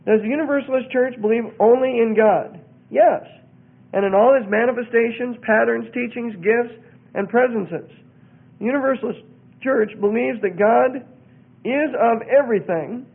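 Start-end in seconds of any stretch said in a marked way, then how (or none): 0.1-11.0 emphatic, measured reading of a creed; reading aloud. Real, not acted. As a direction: read out the doctrine in firm, separate phrases.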